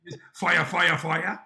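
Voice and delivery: slowly reads out each emoji name; deadpan, spaced-out list of emojis; slow reading of a tweet. Retold or imitated. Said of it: "a tweet that just said".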